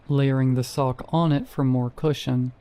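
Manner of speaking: ordinary delivery, nothing marked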